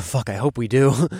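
smiling, half laughing; with a smile. Acted. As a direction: say it grinning. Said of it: "I said with a smile".

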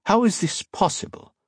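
very high, incredulous question; blurted astonishment. A narrator's reading. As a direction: blurt it out in disbelief. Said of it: "Captain Monturiol blurted".

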